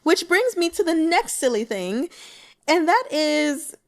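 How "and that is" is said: fighting back laughter while telling it; real giggles spilling over the words; laughing. Real, not acted. Laughing about the erotica gift.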